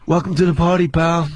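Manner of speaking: lightly voiced action-hero impression; a hint of low, wry movie tough guy; Bruce Willis. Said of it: "Bruce Willis and Demi Moore".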